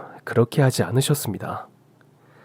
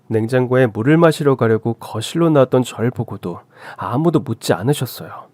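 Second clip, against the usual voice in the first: ordinary delivery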